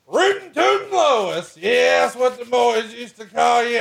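very high, hammed-up redneck voice; squeaky put-on camper voice bragging to his wife; mock hillbilly husband. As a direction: play the cocky backwoods husband, way up high. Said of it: "You're like".

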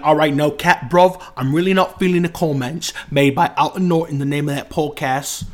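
lightly put-on London accent, casual; a hint of a London lad talking slang; British accent. Podcast guest imitating a British actor, lightly put-on London accent. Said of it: "I just put on an accent".

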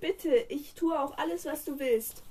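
lightly voiced begging troll; pleading troll. Troll begs the princess for help, lightly pleading. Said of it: "Der Troll sagte".

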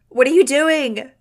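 high, loud, drawn-out wail. A narrator's reading. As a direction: wail it in terror, as if burned. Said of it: "Iggy wailed in a voice I'd never heard".

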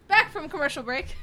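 radio announcer. Pretend. Mock radio announcer cue.

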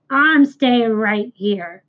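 slow, stubborn rat; a lightly rumbled rat refusing to go; rumbling rat. Acted. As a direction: drag it out like a grumpy rat. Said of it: "rumbled the rat".

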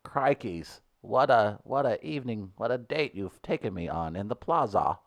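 put-on half-hearted Australian accent on a date. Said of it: "Do an Australian accent".

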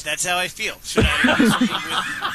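far-off, hollow phone line; echoing tunnel. Real, not acted. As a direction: sound like you're calling from a tunnel. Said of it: "you sound like you're in a can".

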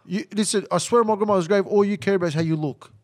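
loud, emphatic accusation; wzburzony zarzut. Real, not acted. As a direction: swear it loudly, mid-quarrel. Swears oath while accusing friend.

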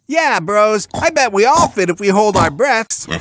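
high, loud eager pig; hyped cartoon pig bro; overexcited pig. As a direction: squeal along enthusiastically. Overexcited pig joins scheming.

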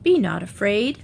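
slow, gentle royal command; a hint of a kindly queen; queenly voice. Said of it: "in her most queenly voice".

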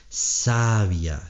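"sabia" said SA-bia, stress on the first syllable; no stress on the i of "sabia", keep it gliding; "sabia" as SA-bia, correcting the answer; sabia without accent. Shown as a demonstration. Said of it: "sin acento".

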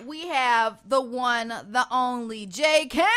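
radio host introducing the guest; announcer intro. Acted.

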